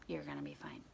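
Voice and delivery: quiet reassurance. Retold or imitated. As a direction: reassure a child under your breath. Reassuring the scared child.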